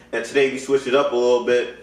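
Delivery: talking with food in mouth; mouth full. Real, not acted. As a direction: speak around a mouthful. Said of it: "I had something in my mouth".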